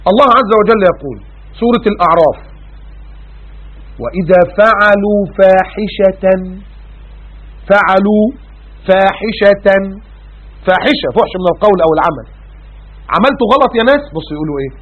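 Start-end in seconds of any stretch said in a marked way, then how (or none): 4.0-9.7 slow, drawn-out melodic recitation; Quranic recitation. Acted. Preacher reciting the verse to the congregation, slow melodic chant. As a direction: chant the verse slowly, stretching each word.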